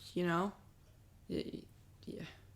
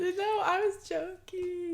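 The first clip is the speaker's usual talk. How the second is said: put-on higher, slow British reality-TV accent; Love Island accent; 10 semitones higher, 5 dB quieter, much slower than usual. Cohost called out, answering in Love Island accent. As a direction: play the Love Island girl, drawn out. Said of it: "take your Love Island accent".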